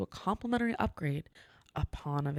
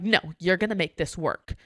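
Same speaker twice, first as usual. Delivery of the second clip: louder, insistent mock demand; demanding guest; 6 dB louder than usual. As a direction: imitate a customer laying down the law.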